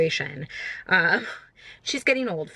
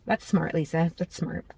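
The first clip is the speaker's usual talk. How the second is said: sarcastic; 3 semitones lower, 4 dB quieter than usual. Real, not acted. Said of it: "mocking herself".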